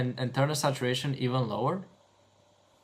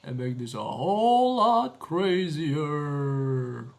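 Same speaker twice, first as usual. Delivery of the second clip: mock-dramatic, stretched-out boast; hammed-up announcement; 5 dB louder than usual. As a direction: swell loud on the middle and draw out the last word. Hams up his big announcement.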